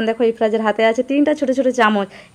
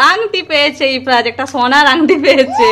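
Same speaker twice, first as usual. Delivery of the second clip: mock excitement; 3 semitones higher than usual. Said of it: "মজা করছিলাম".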